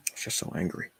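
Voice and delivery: barely-voiced whisper, repeating to herself; hushed, breathy repeat of the same words. Real, not acted. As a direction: let it fall to a whisper. Whispered repeat of own anger.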